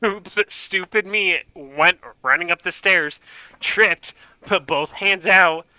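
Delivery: covering for a sister with a mock-casual story; fake casual excuse. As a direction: brush it off like it's nothing. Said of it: "Pretending that".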